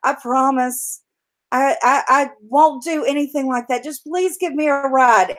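high, wheedling storybook scorpion; begging scorpion. Acted. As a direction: plead and swear over and over. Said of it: "And the scorpion says".

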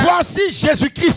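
crying out. Acted. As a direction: announce him like a herald to sleepers. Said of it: "en disant". (proclamation criée, plus aiguë)

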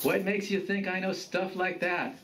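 mild anger. A narrator's reading. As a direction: challenge him with understated anger. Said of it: "with a tone of anger".

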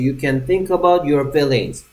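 slow, every word spelled out clearly; slow model reading. Shown as a demonstration. Teacher reading slowly before the class repeats it. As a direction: read it slowly so the class can follow. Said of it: "다 같이".

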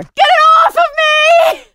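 high, slow panicked crying shout; panicked scream. Acted. Grabbed by a monster.

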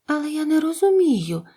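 high, puzzled amazement; amazed. A narrator's reading. Dorothy puzzled by the wizard's confession, amazed. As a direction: wonder aloud in a high voice. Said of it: "зачудовано сказала Дороті".

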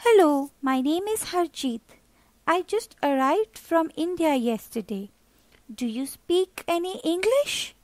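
a shy newcomer saying hello; polite boy introducing himself; friendly young boy. Acted. Harjeet greets the boy.

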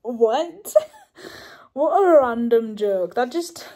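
real shocked laughter; amused disbelief. Real, not acted. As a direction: react in stunned delight. Shocked by the joke.

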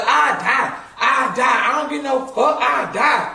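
imitating cousin shouting she'll die; mock reckless yell. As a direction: bellow it like nothing scares you. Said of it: "She's like".

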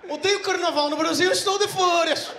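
loud, high, fed-up outburst; mock exasperated shout. Fed up with questions from the attendant, loud outburst. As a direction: blurt it out, fed up.

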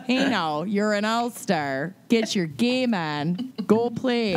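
slow hammed-up Minnesotan pep talk; Minnesotan accent. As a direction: drawl it out with Minnesota vowels. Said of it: "unleash their worst Minnesotan accents".

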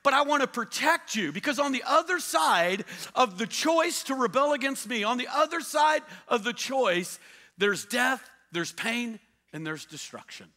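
high, loud fatherly warning; loving father God. Acted. God warning Adam and Eve, loud and fatherly. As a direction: warn them like a caring father. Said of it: "He goes".

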